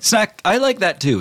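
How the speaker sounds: high, fussy genie voice. Acted. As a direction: whine it like a picky genie. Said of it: "He's like".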